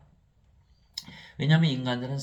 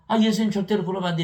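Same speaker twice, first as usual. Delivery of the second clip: loud, high, rapid protest; acted-out indignant scolding; rebuking outburst; 9 semitones higher, 10 dB louder, faster than usual. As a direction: object urgently, voice jumping up and loud. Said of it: "예수님 막 꾸짖은 거예요".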